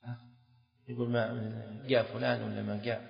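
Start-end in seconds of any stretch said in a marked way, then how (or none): 1.1-3.0 Yemeni جاء said with a hard g, ga; quiet Yemeni accent, جاء as ga; Yemeni dialect. Retold or imitated. Teacher imitates Yemeni speech for students, hard g in جاء. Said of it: "وفي لغة أهل اليمن الآن".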